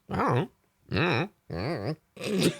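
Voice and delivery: drawn out slowly, voice lifting on don't; slow sing-song repeat. Shown as a demonstration. Gamer musing aloud in a slow singsong. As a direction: stretch it like a singsong tease.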